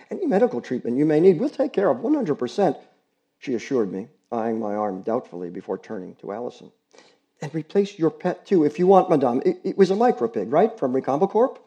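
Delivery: put-on pleading girl. Girl begging the neighbors not to report her dog, urgent girlish plea. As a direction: beg them to spare the dog.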